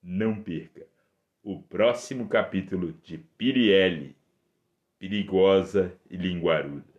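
booming radio serial promo; old radio serial announcer. Acted. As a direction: announce the next episode grandly.

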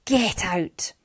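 hard, final order; angry shout. A narrator's reading. Father silences Mariana's plea, angry shout. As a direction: cut off her plea with an order. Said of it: "he shouted".

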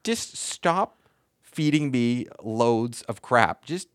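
fed-up, emphatic retort; exasperated. Retold or imitated. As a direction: lay the blame firmly on them. Retold quarrel with dealership.

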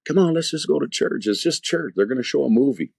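imitating his girlfriend begging him to come to church; coaxing girlfriend. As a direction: coax him along sweetly, mimicking her.

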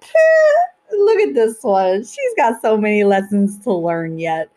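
mock divine creator tut-tutting. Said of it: "divine creator is gonna be like".

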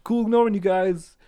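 high, laughing mock farewell; laughing sarcastic. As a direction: chuckle through a sarcastic goodbye.

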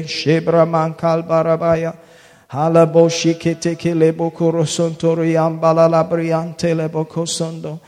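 fervent prayer in tongues; speaking in tongues. Real, not acted.

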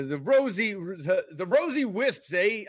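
a hint of Boston, quickly dropped; Boston accent. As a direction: try a Boston accent and give up. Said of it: "in a Boston accent".

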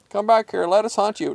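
high cartoon call; luring cat. A narrator's reading. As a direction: coax the prey to return. Cats call prey back.

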